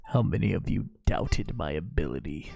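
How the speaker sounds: mock boastful. Boasting to chat after win.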